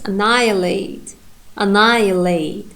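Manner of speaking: "annihilate" with the stress on NI; stress on second syllable. Shown as a demonstration. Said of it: "in the second syllable ... primary stress".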